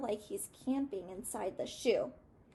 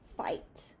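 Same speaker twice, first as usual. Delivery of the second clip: whispered; 7 dB quieter than usual. Real, not acted. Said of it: "they kind of verbally".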